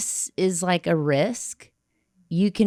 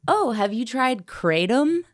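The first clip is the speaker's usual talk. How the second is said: higher-pitched, casual mock offer; breezy retold suggestion, pitched up; light suggestion; 6 semitones higher than usual. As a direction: imitate her lightly floating a suggestion. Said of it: "suggested to me just very lightly".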